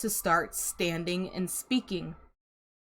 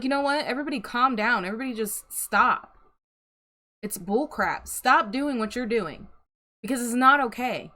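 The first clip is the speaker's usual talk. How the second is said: acted firm intervention, pitch raised; not okay with it; 4 semitones higher than usual. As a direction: put your foot down for someone else. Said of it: "maybe they're just not okay with it".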